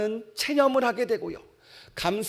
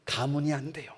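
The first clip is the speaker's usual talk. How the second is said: Gideon's excuse; 4 semitones lower than usual. Acted. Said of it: "이렇게 이야기합니다".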